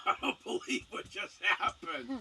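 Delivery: stunned, half-laughing at what just happened; laughing disbelief. Retold or imitated. Stunned man alone at red light.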